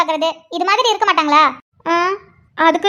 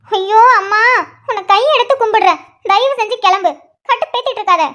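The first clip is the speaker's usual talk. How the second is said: exasperated yell; 3 semitones higher than usual. Acted. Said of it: "எதுக்கு இப்படி கத்துற?".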